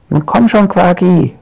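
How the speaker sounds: a lightly voiced witch coaxing the wizard down; coaxing call. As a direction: call him down from the tree. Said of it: "ruft sie".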